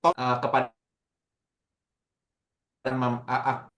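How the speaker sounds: choppy audio dropping out; broken call connection; voice cutting out. Real, not acted. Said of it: "suaranya terputus-putus".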